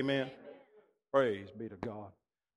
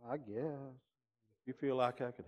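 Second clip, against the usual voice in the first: humble; 7 dB quieter than usual. Retold or imitated. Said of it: "he got real humble like a little sheep".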